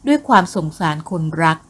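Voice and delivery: plain reading voice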